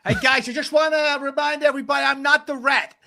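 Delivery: put-on failed Dutch accent, sounds American; Mickey van der Ven Dutch accent. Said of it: "I can't do the Dutch accent".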